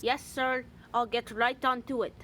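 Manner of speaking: old, poor attempt at a Scottish accent; bad Scottish accent. Shown as a demonstration. Vlogger demonstrates his earlier attempt, bad Scottish accent. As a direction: put on an unconvincing Scottish accent. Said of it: "I used to sound like this".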